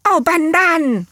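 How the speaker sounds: high, loud shocked outcry; the relatives yelp in surprise; startled cry. A narrator's reading. Tumbled brothers cry out loud in shock.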